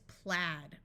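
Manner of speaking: "plaid" said like "plad"; "plaid" rhyming with "had"; short A in "plaid". Shown as a demonstration. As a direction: give "plaid" the vowel of "cat". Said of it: "with a short A sound".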